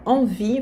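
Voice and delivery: "Envie" ending on a clear i, no final e; "Envie", stop on the i sound; "Envie" said as ɑ̃vi, never "envier"; careful pronunciation. Shown as a demonstration. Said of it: "Cuidado aqui nessa pronúncia".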